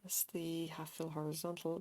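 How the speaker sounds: whispered to self; whispering. Real, not acted. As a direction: whisper it while counting. Counting stitches softly.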